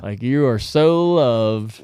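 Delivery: loud, drawn-out mock pleading; mock exasperation. Owner to growling dog, in mock exasperated pleading. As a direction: insist on it slowly and emphatically.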